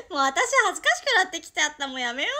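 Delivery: loud, flustered rush; real embarrassment. Real, not acted. Streamer bails out of moe lines, flustered. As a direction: burst out embarrassed, begging off.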